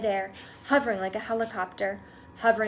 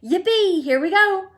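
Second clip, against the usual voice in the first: high, loud cheering; joyful whoop; 9 semitones higher, 10 dB louder than usual. A narrator's reading. Grandpa Joe cheering the rising elevator, loud high whoop. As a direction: let it rip with glee.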